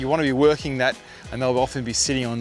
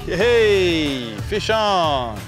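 high, drawn-out whoop falling away; excited hookup cheer; 4 semitones higher, much slower than usual. Real, not acted. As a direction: celebrate the catch with a long cheer. Angler has just hooked a fish.

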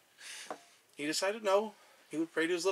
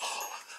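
sharp gasp; 11 dB quieter than usual. Acted. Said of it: "the little god was aghast".

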